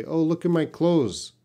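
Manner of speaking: "clothes" said as "close", with no th; "clothes" simplified to sound like the verb "close"; cheat pronunciation. Shown as a demonstration. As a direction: drop the th in "clothes", making it "close". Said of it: "you can cheat in English".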